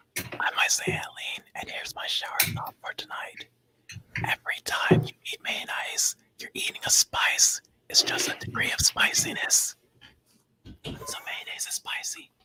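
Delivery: ASMR-style whispering voice. Asked to share his shower thought, the speaker delivers it in an ASMR voice. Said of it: "You gotta do it in A S M R voice".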